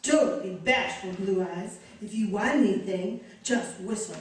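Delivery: low, teasing femme fatale voice; Lauren Bacall. Acted. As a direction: vamp it up like a film siren. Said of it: "now she wants to be Lauren Bacall".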